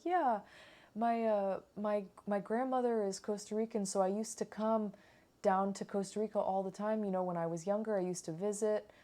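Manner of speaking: a hint of the owner's cheerful American voice; imitating American owner. Imitating the owner telling the friends his story. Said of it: "super American".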